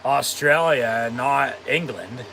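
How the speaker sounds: Australia drawn out, not England leaned on slowly; slow emphatic contrast. Real, not acted. Insisting to viewers the show belongs in Australia, slow and emphatic.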